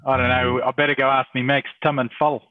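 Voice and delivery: hammed-up Kiwi vowels; mock New Zealand accent. Teasing co-host about a lost accent, mock New Zealand accent.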